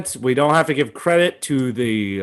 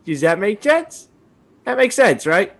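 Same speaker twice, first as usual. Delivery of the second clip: slow, sing-song teacher talk; preschool teacher; 3 semitones higher than usual. Acted. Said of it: "Sound like a preschool teacher".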